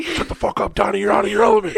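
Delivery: strained, high-pitched mock outburst; hammed-up scolding shout, climbing high; imitated yelling. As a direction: snap it loudly as a movie tirade. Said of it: "Donnie always got yelled at".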